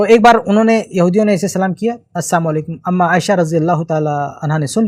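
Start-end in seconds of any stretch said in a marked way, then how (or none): 2.1-2.7 السلام clipped to sam; twisted salaam. Retold or imitated. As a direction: say السلام as a short sam, dropping the la. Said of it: "تھوڑا سا آواز ادھر ادھر کر لیتے تھے".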